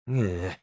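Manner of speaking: low grunt of disgust; weary low ugh; disgusted groan. Acted.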